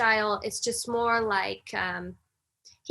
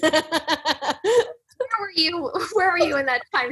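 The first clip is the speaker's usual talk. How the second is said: laughing mock demand; 6 semitones higher, 6 dB louder, slower than usual. Real, not acted.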